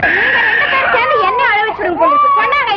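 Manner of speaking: fast, high, laughing protest; laughing complaint. Acted. Laughing exasperation at both. (சிரித்தபடி வேகமான புகார்)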